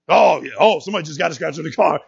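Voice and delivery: sarcastic, fast and loud; mock parental outrage. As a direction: play the furious parent, hammed-up. Mocking parent upset over scratch.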